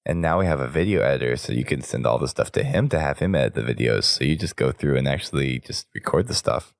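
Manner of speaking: hoarse voice from a cold; rough sick voice, talking through it. Real, not acted. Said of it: "admirer of my sick voice".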